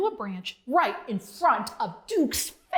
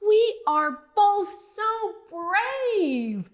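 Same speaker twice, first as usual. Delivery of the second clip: higher, louder happy cheer; 5 semitones higher, 3 dB louder than usual. Acted. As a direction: cheer like a proud little frog. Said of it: "as Bonzo cheered".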